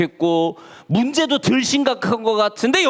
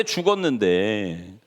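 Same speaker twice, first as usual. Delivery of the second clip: 죽었는데 drawn out slowly, dropping low and soft; 죽었는데 slowly and heavily, voice falling quiet; slow, quiet repeat; 12 semitones lower, 3 dB quieter, much slower than usual. Shown as a demonstration. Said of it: "repeated slowly".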